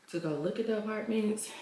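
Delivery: breathless after walking; out of breath. Real, not acted. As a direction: talk while catching breath. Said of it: "Why am I out of breath?".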